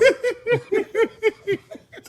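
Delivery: high burst of laughter. Real, not acted. Laughs at his own story.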